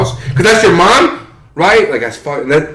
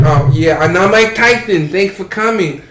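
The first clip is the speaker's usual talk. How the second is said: higher, small-voiced boxer; Mike Tyson impression; 4 semitones higher than usual. Imitating the show host for a friend, high small voice. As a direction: play the famous boxer lightly. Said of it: "they have Mike Tyson, like".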